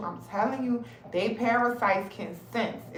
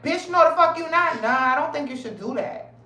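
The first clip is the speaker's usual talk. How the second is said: sassy worm voice; 5 semitones higher than usual. Pretend. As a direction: snap back as the nasty worm. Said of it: "And they like".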